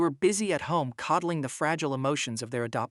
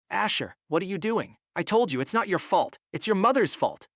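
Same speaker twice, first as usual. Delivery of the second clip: higher, louder urgent reproach; agitated scolding; 6 semitones higher, 4 dB louder than usual. A narrator's reading. Sister stopping brother from kneeling, agitated scolding. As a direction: scold him in rising urgency.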